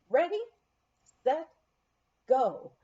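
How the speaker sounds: loud, high starter's call; calling the start. Retold or imitated. Race starter calling the skiers off the line.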